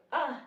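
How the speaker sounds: short, small "ah"; imitating a mild little exclamation; not screaming. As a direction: let out a brief "ah", no scream. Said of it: "she was not screaming".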